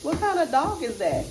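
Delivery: put-on high, loud excited kid question; little boy's voice. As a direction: act out the little boy's surprise. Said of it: "He said".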